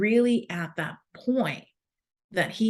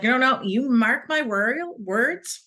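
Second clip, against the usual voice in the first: louder, insistent Scottish coach; firm Scottish coach, raising her voice; Scottish coach insisting; 6 semitones higher, 5 dB louder than usual. Retold or imitated. Coach insisting to the mom, in a loud Scottish accent. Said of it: "She's like".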